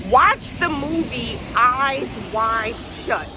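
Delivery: slow, earnest begging; passionate pleading. Real, not acted. Begging viewers to watch Eyes Wide Shut, passionately. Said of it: "Sorry, I'm getting passionate".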